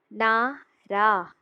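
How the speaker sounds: नारा drawn out slowly, syllable by syllable. Shown as a demonstration. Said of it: "आ, ना". (नारा को धीरे धीरे, ना-रा)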